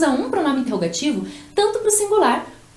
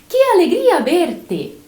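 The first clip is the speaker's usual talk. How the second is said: slow glad exclamation, "alegria" stressed; exclaiming joy; 4 semitones higher, 4 dB louder, slower than usual. Shown as a demonstration. Teacher repeating the exclamation for students, glad exclaim. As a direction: exclaim "Que alegria verte" happily, leaning on "alegria". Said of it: "estou usando o que para exclamar".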